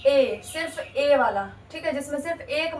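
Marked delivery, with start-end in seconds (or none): 0.1-1.4 "ए" stretched slowly as a long ay; slow modelled vowel. Shown as a demonstration. Teacher slowly demonstrating "ए" to the class. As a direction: draw out "ए" so kids hear it. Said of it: "ए का एक pronunciation".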